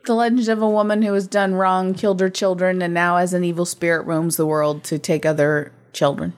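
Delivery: monotone robot voice. Acted. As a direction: read the synopsis with no inflection. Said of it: "done in a monotone voice".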